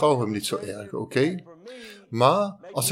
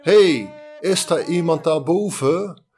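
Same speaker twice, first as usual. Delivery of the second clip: loud, high shout up the cliff; shouting for help; 5 semitones higher, 4 dB louder than usual. Acted. Man dangling from a cliff shouts for rescue, loud and high. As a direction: yell upward so someone hears. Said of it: "dus hij schreeuwde".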